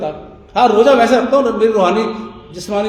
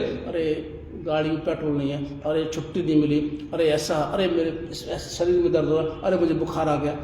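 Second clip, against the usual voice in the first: mock whining; 7 semitones lower, 11 dB quieter than usual. Mocks people's everyday whining.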